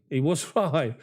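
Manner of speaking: He was right broken by a laugh before right. Real, not acted. Streamer laughs agreeing with a viewer's mate, amused. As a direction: chuckle in the middle of the words. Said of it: "repeats it with a laugh".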